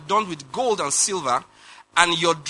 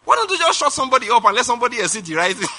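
exasperated plea to God; 6 semitones higher than usual. Retold or imitated. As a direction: appeal to heaven in mock despair, pitched up. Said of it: "sometimes I say".

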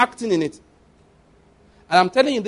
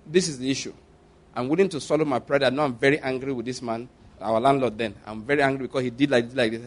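low, softened, matter-of-fact praying; simple prayer; 5 semitones lower, 5 dB quieter than usual. Retold or imitated. Husband praying to God about the landlord, simply and low. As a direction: talk plainly and quietly to God. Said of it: "That's how I prayed that prayer that day, simply".

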